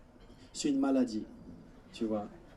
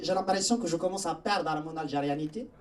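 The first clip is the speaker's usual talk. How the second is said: put-on Algerian accent; 5 dB quieter than usual. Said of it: "imaginez quand il avait l'accent".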